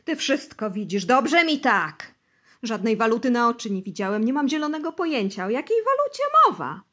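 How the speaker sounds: loud, high, rushing protest; emotional pleading. Acted. Bosy protests to the interrogators, loud and desperate. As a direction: plead innocence with growing panic. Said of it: "ciągnął z uczuciem".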